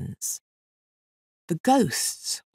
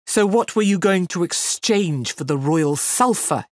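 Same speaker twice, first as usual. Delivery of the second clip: mild roar; 3 semitones higher, 3 dB louder than usual. Acted. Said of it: "he roared".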